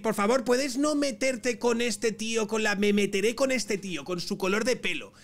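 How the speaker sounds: lightly mimicking a pleading complainer; a hint of a whiny objector's plea; mock pleading. Mocking viewers' pleas in acted quote.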